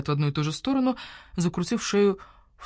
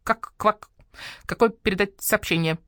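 mumbling; 3 semitones higher than usual. Acted. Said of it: "промямлила лягушка".

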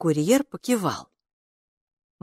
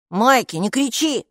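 hushing brother; 6 semitones higher than usual. A narrator's reading. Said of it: "попросил Капо".

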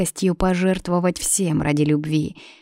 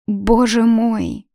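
slow exclamation with a touch of a sob; gently narrated sob, higher; mild sob; 5 semitones higher, much slower than usual. A narrator's reading. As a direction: draw it out, lightly sobbing. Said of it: "всхлипнула она".

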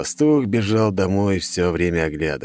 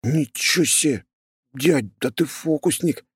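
delighted surprise; 8 semitones higher than usual. A narrator's reading. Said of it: "расплывшись в улыбке".

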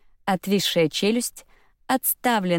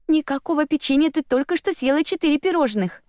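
stern mother; 9 semitones higher than usual. A narrator's reading. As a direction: firmly tell off a child. Mother scolding greedy toddler.

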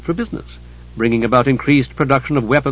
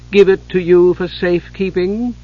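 sarcastic; 6 semitones higher than usual. Acted. Chislev sarcastically offering Hidjukel the gem. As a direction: hand him the gem with sarcasm.

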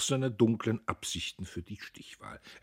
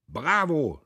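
higher, louder shouted bravo; crowd cheer; 7 semitones higher, 6 dB louder than usual. A narrator's reading. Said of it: "schrien die Lieferanten".

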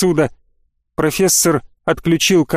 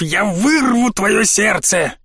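slow, higher menacing bandit; furious threat; 4 semitones higher, slower than usual. A narrator's reading. Bandit threatens Jer over the radio, slow and enraged. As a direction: threaten him slowly, in a rage. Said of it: "рассвирепев, закричал в микрофон".

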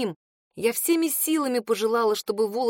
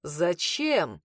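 a lower voice, stunned and blank; dazed lower male voice; 4 semitones lower than usual. Acted. Dazed man asks why.

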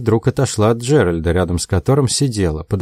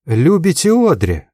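higher, slow astonished question; surprised; 7 semitones higher than usual. A narrator's reading. Josie hears Dick's confession, slowly astonished. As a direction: let the surprise lift the words slowly. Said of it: "удивлённо".

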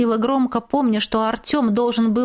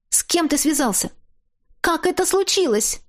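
high, alarmed questions; 8 semitones higher than usual. A narrator's reading. Captive woman anxiously questioning her ex-husband. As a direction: ask in rising dismay.

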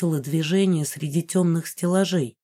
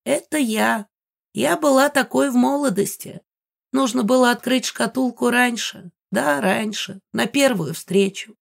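put-on old woman voice; 5 semitones higher than usual. Megara shows her portrait.

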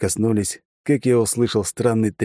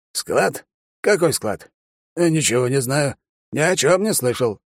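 hammed-up playing dumb, higher; feigned innocence; 7 semitones higher than usual. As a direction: pretend to know nothing. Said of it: "сделал вид, будто ничего не понимает".

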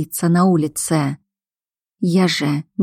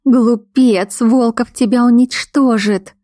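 higher-pitched, scornful warning; alarmed woman; 5 semitones higher, 4 dB louder, slower than usual. Acted. Woman warns the werewolf of his enemy, scornful. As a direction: warn him sharply in a raised pitch.

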